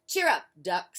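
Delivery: loud, bright cheer up; cheerful goat. Acted. Goat calling to grumpy Duck, loud and bright. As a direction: call it out brightly. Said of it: "said Goat".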